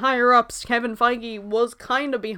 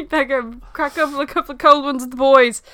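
mock Australian; 5 dB louder than usual. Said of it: "sorry to anyone that's Australian".

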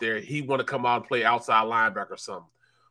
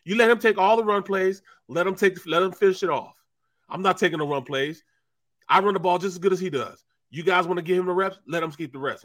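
higher, indignant protest; mock defiant refusal; 5 semitones higher than usual. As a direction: argue back at the coach. Charlie refusing again.

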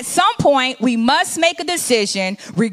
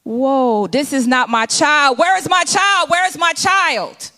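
searching mother. Acted.

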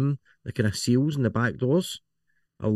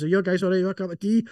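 much higher, bright hostess voice offering tea; high voice for Nicola; 9 semitones higher than usual. Retold or imitated. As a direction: play Nicola popping in with tea, pitched way up. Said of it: "Nicola walks in ... and goes".

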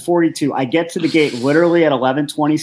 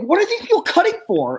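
retold yelling. Traveler complaining about people cutting in pre-check line, mock yelling. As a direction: demand an answer in high indignation. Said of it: "I'm just start yelling at him".

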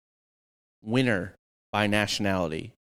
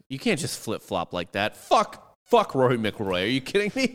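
hammed-up indignant rant; mock outrage; 3 semitones higher than usual.

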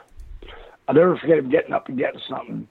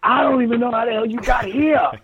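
pitched-up mock incredulity, leaning on here; imitating how he said it; 8 semitones higher than usual. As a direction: replay his stunned disbelief, higher. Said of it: "it's the way he said it".

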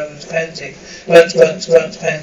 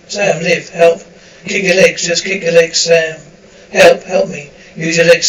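loud, panicked cries for help; desperate shouting; 7 dB louder than usual. Acted. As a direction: yell it while struggling in water.

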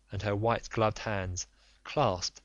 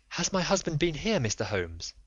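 higher, breathless lady's voice; a frightened aristocratic wife pleading; anxious noblewoman; 6 semitones higher than usual. Acted. Lady's first words to Holmes.

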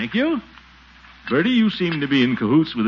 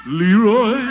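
louder sharp rebuke of a name; sharp call; 6 semitones higher, 6 dB louder than usual. Acted. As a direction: snap the boy's name to stop him. Uncle calls out sharply.

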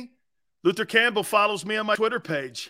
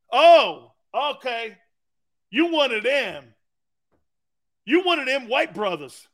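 teammate's voice; 6 semitones higher, 5 dB louder than usual. Retold or imitated. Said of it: "teammates accept him".

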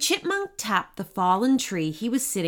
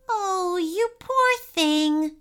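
slow, higher-pitched tender pity; gentle sympathy; 9 semitones higher, slower than usual. A narrator's reading. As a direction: comfort a crying little animal. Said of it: "she said softly".

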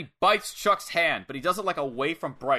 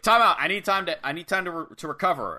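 higher mock plea for a timeout; calling a timeout; 3 semitones higher than usual. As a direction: act out pleading for a breather. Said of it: "calling a timeout".

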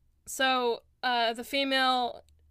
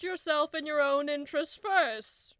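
higher-pitched elf voice; lightly voiced elf, pitched up; elf cleric; 6 semitones higher than usual. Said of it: "And he says".

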